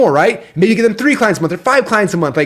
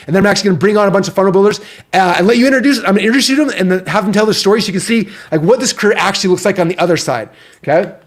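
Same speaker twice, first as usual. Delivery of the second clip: breathless, rushing through the words; talking fast while still catching breath; 3 semitones higher than usual. Real, not acted. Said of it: "out of breath".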